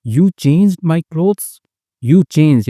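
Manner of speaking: high, slow accusing cry; mock angry cry. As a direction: play the offended girl, rising high and drawn out. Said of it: "she screamed".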